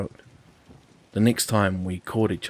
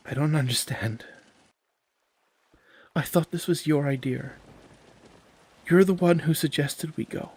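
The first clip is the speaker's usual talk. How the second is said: confused; 7 semitones higher, 4 dB louder than usual. Acted. Andy confused, pressing.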